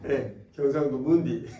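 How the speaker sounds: slow, laughing through the words; amused slow jab; laughing tease. Acted. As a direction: chuckle out the nickname. Teasing nickname through laughter.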